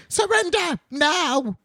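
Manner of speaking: high, drawn-out shouted command; villain's demand. Acted. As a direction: bellow it down from the throne. Gnome King demands surrender.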